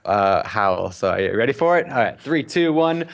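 ordinary talk

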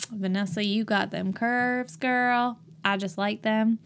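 lightly voiced Southern flirt; Southern accent. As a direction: lay on a slight Southern twang. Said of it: "kind of a Southern accent".

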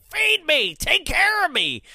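high, loud mock scream; imitated screaming mother. Mother screams off camera at her daughter, hammed-up scream. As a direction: screech demands like a needy mother. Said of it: "the mother who was screaming off camera".

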